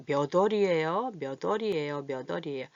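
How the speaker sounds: 몇 월이에요 run together as 며더리에요; linked pronunciation. Shown as a demonstration. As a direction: repeat 몇 월이에요 with ㄷ carried over, fading. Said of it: "요리 가서 소리가 나야 돼".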